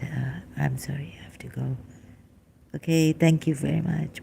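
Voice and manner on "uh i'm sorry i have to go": drained, breathless whisper of an apology; too spent to voice the words; exhausted whisper. Real, not acted. Ailing speaker bowing out to her viewers, whispering. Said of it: "I don't have strength".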